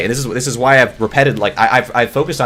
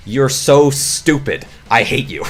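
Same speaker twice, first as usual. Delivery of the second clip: slow exasperated insult; 3 semitones higher, much slower than usual. Real, not acted. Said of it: "my anger was so bubbling".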